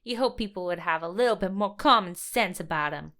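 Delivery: hint of a New York accent. Real, not acted. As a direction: slip into a light New York twang. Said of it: "Nice accent".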